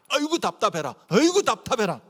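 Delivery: exasperated groan of frustration. Acted. Preacher voicing angry Jesus in everyday Korean, exasperated. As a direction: groan it out, utterly fed up. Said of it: "우리말로 말하면".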